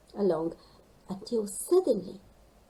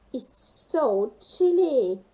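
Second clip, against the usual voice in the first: shivering; 4 semitones higher, 7 dB louder, slower than usual. Acted. Penguin in icy water.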